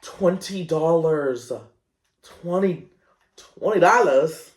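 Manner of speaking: stunned that it costs that much; incredulous. Real, not acted. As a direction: disbelief rising to indignation. Outraged at the price.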